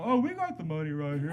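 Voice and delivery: imitated drunk blurting it out; drunk sidekick. Drunk sidekick giving away the robbery, blundering. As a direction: play the blundering drunk accomplice. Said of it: "that's his drunk sidekick".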